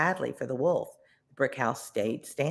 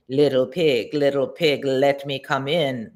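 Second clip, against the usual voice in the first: wolf voice; 4 dB louder than usual. Acted. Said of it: "the wolf called to the pig inside".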